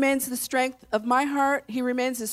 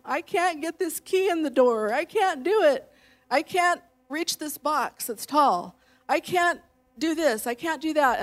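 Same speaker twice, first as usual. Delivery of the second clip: higher, whiny "I can't" voice; mock your own helpless complaining; self-pitying whine; 5 semitones higher than usual. Wife imitating her old helpless self, mock whine. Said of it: "I used to say "I can't do it".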